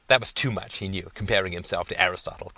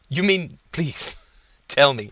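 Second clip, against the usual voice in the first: excited disbelief; 6 semitones higher, 6 dB louder than usual. Acted. Professor stunned by thesis plan.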